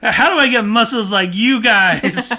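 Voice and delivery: put-on high, loud little kid dreaming big; childish eager voice; immature child voice. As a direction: play a wide-eyed kid who wants to be a wrestler. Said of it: "he's saying this in a very immature way".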